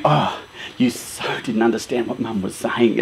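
low, hushed reproach; reproachful partner. Retold or imitated. Partner to the one who missed Mum's hint, hushed reproach. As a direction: say it softly and low, gently scolding. Voicing a disappointed partner in story.

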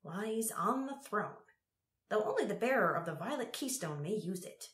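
a hint of an old sage; old man voice. A narrator's reading. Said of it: "said Ebbet".

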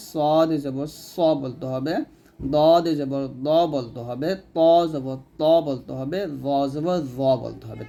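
"খ জবর খ" with a full, rounded ও sound, slow; slow heavy letter drill. Shown as a demonstration. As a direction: read each heavy letter slowly and clearly, no আ sound. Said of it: "যেরকম হরফ সেরকম উচ্চারণ করতে হবে". (ধীরে ধীরে মোটা হরফের উচ্চারণ, আকার ছাড়া)

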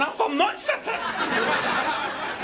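slow, drawn-out angry Scot; angry Scotsman. Retold or imitated. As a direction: ham up a raging Scotsman. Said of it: "Scottish people who'd be going".

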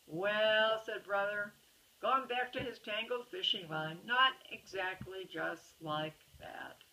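storybook voice, characters lightly voiced; reading to a child. A narrator's reading. Parent reading a bedtime story to a child, lively storybook reading. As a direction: read the picture book aloud to a little one. Reads picture book to child.

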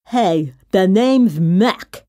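slow, slobbering monster; Mac. A narrator's reading. Big scruffy monster introducing himself, slow and slobbery. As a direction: slurp the words out slowly. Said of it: "Mac slurped".

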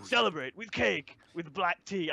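a hint of a gleeful tyrant; put-on Big Mom voice. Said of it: "I don't know why I'm doing this voice".

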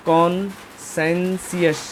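কনসেনসিয়াস drawn out slowly, each syllable clear; slow syllable demo. Shown as a demonstration. Teacher showing students how to say কনসেনসিয়াস, slow demo. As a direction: stretch কনসেনসিয়াস so learners hear every part. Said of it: "এটাকে কনসেনসিয়াসই বলে".

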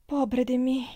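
murmured lament. A narrator's reading. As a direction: lament your misfortune. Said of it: "mormorò la ragazza". (lamento accorato, acuto)

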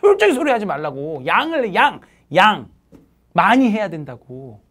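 loud, insistent scolding; scolding shout. Real, not acted. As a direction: shout them down like a strict teacher. Teacher scolding students about efficiency.

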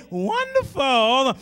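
drawn-out slow call; a churchgoer's slow call of wonderful. Retold or imitated. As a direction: stretch the word out. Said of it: "somebody would say".

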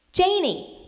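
put-on high, loud call for the child; frightened mother calling out. A narrator's reading. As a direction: call her name in alarm.

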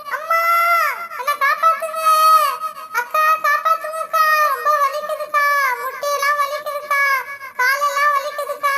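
put-on a hurt kid crying for help; crying child. Child fell, crying in pain. (விழுந்த குழந்தை வலியில் அழும் குரல்)

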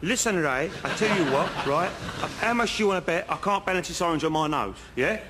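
rough comic stab at Geordie; bad Geordie accent. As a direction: have a go at Geordie, badly. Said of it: "I can't do the accent".

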